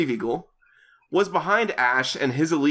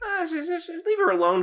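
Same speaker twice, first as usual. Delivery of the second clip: squeaky protest; faster than usual. Acted. Defending character, squeaky protest.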